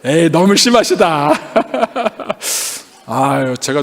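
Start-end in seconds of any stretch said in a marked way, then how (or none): 0.0-1.3 voicing the audience with a laugh; laughing mock protest. Pastor voicing the congregation's teasing reply, laughing. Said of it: "제가 어떻게 했을 것 같아요". 1.4-2.8 breathy laugh. Real, not acted. Pastor laughing along with the congregation.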